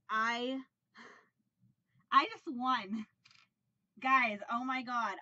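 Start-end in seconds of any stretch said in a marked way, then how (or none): 2.1-5.1 sudden burst of joy, louder; real excitement. Real, not acted. Vlogger discovering her prize win, thrilled. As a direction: blurt out the win. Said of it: "I'm so excited right now".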